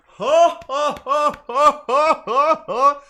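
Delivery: loud, high hammed-up cackle of laughter; mock laughing fit. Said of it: "because they're like".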